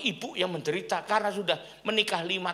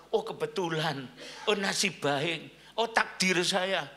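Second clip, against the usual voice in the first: mock lucky sigh; slower than usual. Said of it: "tiba-tiba mendapat".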